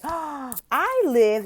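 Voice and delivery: loud, high delight; excited. Shown as a demonstration. Tutor excitedly points to home on the map. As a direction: share it with enthusiasm. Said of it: "So I can say".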